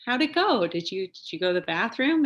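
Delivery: lifted, expectant dad voice; dad asking eagerly. Retold or imitated. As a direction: imitate dad checking how it went. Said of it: "And my dad's like".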